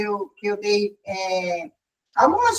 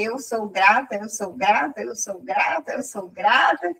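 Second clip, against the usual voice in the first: self-soothing mantra; 3 semitones lower than usual. Retold or imitated. Woman steadying herself after the loss, chanting gratitude. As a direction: repeat it evenly, like a chant. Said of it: "Aí comecei a dizer".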